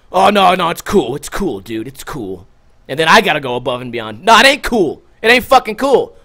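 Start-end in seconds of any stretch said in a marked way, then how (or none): 0.1-2.5 backing down. Retold or imitated. Mimicking people backing down from confrontation. 4.2-6.2 raised, higher-pitched angry comeback; indignant retort. Retold or imitated. Acted angry retort to backing down.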